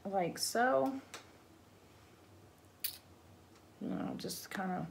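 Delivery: talking with cheeks sucked in. Real, not acted. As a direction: cheeks pulled in while speaking. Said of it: "suck my cheeks in".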